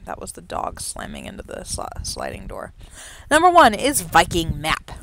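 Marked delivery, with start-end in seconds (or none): 3.3-4.9 a punched, announcer-style start; oddly announced. Real, not acted. Host introducing the first horse in an odd announcer voice. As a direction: present the horse with a showy flourish. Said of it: "I don't know why I said it like that".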